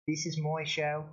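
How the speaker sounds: lightly attempted New Zealand accent; attempted Kiwi accent. Streamer imitating the man who says it's his show, rough Kiwi accent. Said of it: "Kiwi is an accent that's really difficult for me".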